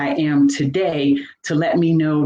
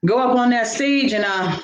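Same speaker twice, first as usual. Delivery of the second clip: self-doubt talk; 5 semitones higher than usual. Retold or imitated. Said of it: "But I was like".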